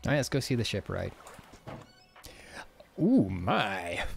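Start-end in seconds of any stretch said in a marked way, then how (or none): 3.0-4.0 whispering. Acted. Reacts to shipwright yard.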